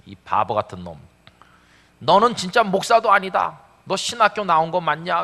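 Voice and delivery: a hint of a scolding father; God rebuking the pastor, voiced as a stern scolding father; stern rebuke. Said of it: "하나님께서 저를 몹시 꾸짖는".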